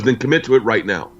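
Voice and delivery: firm, pressing teacher's command, mildly acted; real aggressive. Yoga teacher pushing a student to commit, mildly aggressive. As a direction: retell it as an insistent order, pitch jumping at the end. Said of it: "like, real aggressive in a yoga class".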